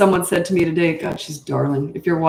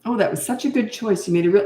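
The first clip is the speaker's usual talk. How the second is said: higher-pitched mock praise; lightly put-on gushing approval; patronizing praise; 3 semitones higher than usual. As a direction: imitate a patronizing parent praising a child. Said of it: "I think that's patronizing".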